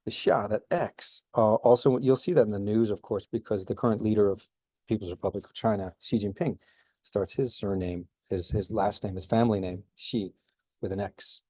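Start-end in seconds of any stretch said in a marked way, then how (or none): 0.1-0.5 "Xia" with X as an SH sound. Shown as a demonstration. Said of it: "that's like an S H sound". 9.9-10.3 "Xi" starting with an SH sound. Shown as a demonstration. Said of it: "that's like an S H sound".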